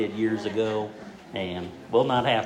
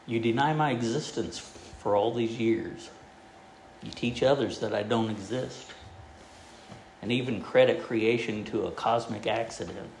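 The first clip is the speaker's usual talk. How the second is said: voice from the sky; 4 dB quieter than usual. Acted. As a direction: speak as God from above, unhurried and grave. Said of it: "a voice came from the sky and said".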